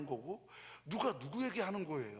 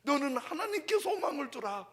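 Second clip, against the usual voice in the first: bold proclamation; 12 semitones higher, 10 dB louder than usual. Shown as a demonstration. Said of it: "하나님이 내게 말씀하세요".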